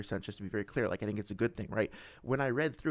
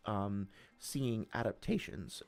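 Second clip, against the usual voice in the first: voice crack; 4 semitones lower, 5 dB quieter, slower than usual. Real, not acted. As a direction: voice cracking mid-word. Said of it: "voice crack there".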